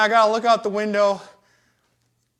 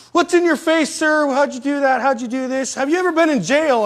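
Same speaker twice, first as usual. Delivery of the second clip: higher-pitched imitation of a child firing questions; curious kid; 5 semitones higher than usual. Kids asking about his face, curious kid voice. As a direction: pester a grown-up like a little kid.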